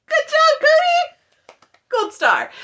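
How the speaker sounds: very high mock praise shout; over-the-top sarcastic cheering. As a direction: yell it like a cheer for a toddler.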